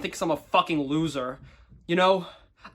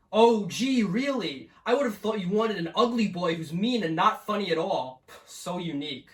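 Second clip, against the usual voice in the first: sarcastic; 3 semitones higher than usual. Acted. Sarcastic reply to dating profile.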